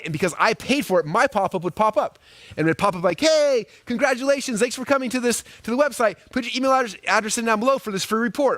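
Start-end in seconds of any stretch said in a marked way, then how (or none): 3.2-8.6 cheesy pop-up ad. Retold or imitated. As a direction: hype the free report like a spammy ad. His own pop-up ad.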